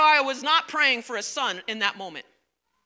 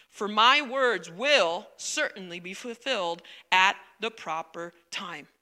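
measured, even Bible reading to the congregation; scripture reading. A narrator's reading. Pastor reads Luke to the congregation, measured and even. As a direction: read the passage steadily, like from the pulpit.

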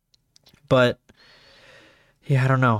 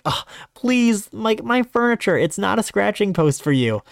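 high, whiny plea to the cat; exasperated pleading; 7 semitones higher than usual. Retold or imitated. To her cat scratching the furniture, exasperated high plea. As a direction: beg her to spare the couch, half laughing.

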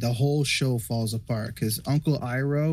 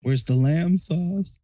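slow, raised chef impression; mock chef demand; 5 semitones higher, 4 dB louder, slower than usual. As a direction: bark it like a kitchen boss.

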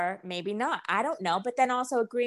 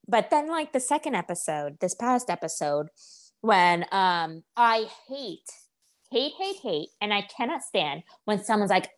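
ordinary delivery

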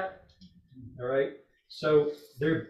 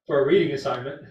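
teasing laugh; 2 semitones higher, 6 dB louder than usual. Real, not acted. Teacher teasing Debbie for speaking up, laughing. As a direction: tease her with a chuckle. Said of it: "I was teasing you there".

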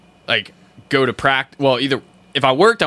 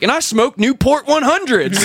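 laughing confession; 3 dB louder than usual. Retold or imitated. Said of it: "And I'm like".

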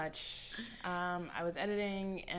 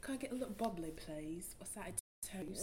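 softer attempt at British; British accent; 7 dB quieter than usual. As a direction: copy the put-on British accent. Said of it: "say a full sentence in the British accent".

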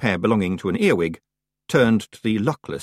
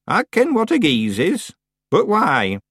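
higher witch voice, lightly acted; impatient witch; 11 semitones higher, 5 dB louder than usual. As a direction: brush off the explanation, then question.

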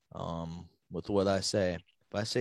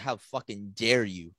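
escalating mock-outraged rant, ending in a drawn-out yell; dad going off; 3 semitones higher, 12 dB louder, slower than usual. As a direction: imitate a furious dad, stretching the loudest words. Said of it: "He, he starts going off".

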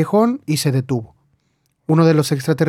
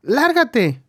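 a higher, sharp yell of get out; angry yell; 9 semitones higher than usual. A narrator's reading. Lil yells at George after he slaps her, higher-pitched. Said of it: "gritó ella".

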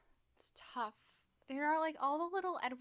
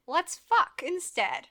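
loud, slow, hammed-up; loud drawn-out; 5 semitones higher, 11 dB louder, much slower than usual. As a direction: stretch it out loudly. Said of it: "I'm looking at Edward and I'm like".

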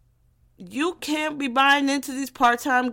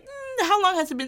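much higher, a teasing read of the text; a high mocking ghoster voice; 9 semitones higher than usual. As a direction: play the lazy ghoster, sing-song.

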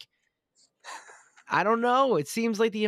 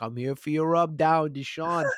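masseur voice; 4 semitones higher, 5 dB louder than usual. Pretend. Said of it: "He's like".

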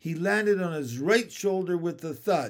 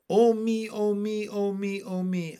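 exasperated lament; 5 semitones higher, 3 dB louder than usual. Acted. Frog laments stranger's ignorance.

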